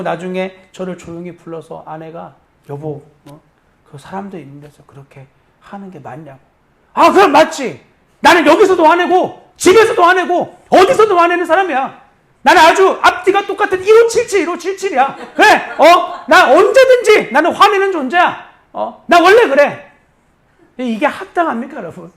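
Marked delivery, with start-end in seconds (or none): 2.7-6.4 hushed, much softer reproach from the wife; mild quiet scolding, as if others could overhear; wife's quiet rebuke. Retold or imitated. 6.9-19.9 high, loud, indignant outburst; reenacted heated shouting at his wife, half mocking himself; defiant angry retort.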